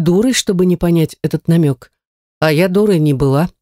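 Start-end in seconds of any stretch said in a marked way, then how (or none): none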